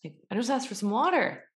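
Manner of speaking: annoyed waiter. Retold or imitated. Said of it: "One's waiter's like".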